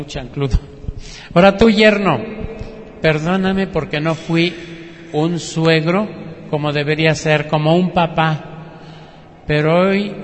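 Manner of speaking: loud, pleading apology, swelling on tú and hoy; earnest plea. Retold or imitated. Dying father begging his daughter and son-in-law for forgiveness, loud and earnest. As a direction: beg forgiveness with full heart and rising force.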